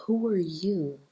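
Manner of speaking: an inner voice whispered under the breath; whispered thought. Retold or imitated. A jealous onlooker's thought, whispered to herself. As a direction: let the judging thought slip out in a whisper. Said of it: "they're almost thinking".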